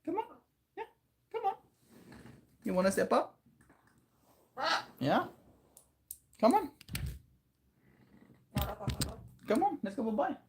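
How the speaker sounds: sing-song call to a puppy; pet talk. Real, not acted. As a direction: coax the dog sweetly, up high. Talking to pet, baby voice.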